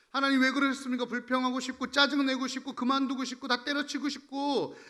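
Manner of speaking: venting complaint. Acted. Voices believers' urge to complain.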